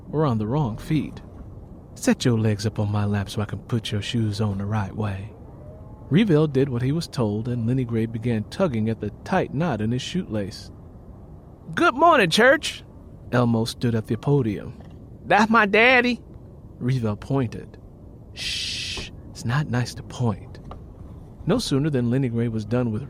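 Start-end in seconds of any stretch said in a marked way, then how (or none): 1.9-5.3 grandmother. Acted. 11.7-12.8 high, louder call to the church; preacher's greeting. Acted. Preacher greeting the church from the podium, loud. 15.2-16.2 put-on high, louder child's voice; small boy. Little boy telling granny about his daddy, high. 18.3-20.6 softer shushing correction; hushing whisper. Acted. Grandmother quietly scolding grandson in church, soft.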